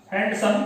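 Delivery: हैंडसम said as हैंड then सम with a break between; hand-some split. Shown as a demonstration. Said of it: "हैंड को अलग बोला और सम को अलग बोला".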